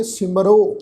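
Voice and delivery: "ਸਿਮਰੋ" ending in a clear long o; careful model of "ਸਿਮਰੋ" with final o; pronunciation demo. Shown as a demonstration. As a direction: say "ਸਿਮਰੋ" as sim-ro. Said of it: "ਤੋਂ ਪਾਠ ਉਚਾਰਨ ਕਰਾਂਗੇ".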